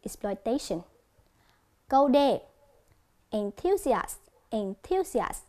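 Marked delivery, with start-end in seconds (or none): 0.0-0.8 "Exploitation" with TA stressed; "Exploitation" said as ex-ploi-TA-tion; stress on third syllable. Shown as a demonstration. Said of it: "Âm A đó". 3.3-5.4 "Enthusiast" with THU stressed; "Enthusiast" said as en-THU-si-ast; stress on second syllable. Shown as a demonstration. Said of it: "có dấu nhấn ở âm thứ hai".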